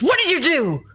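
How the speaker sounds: high, heated accusation; accusing demand. Acted. Sailor confronting the one beside his captain, high-pitched accusation. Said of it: "looks at Taro and says".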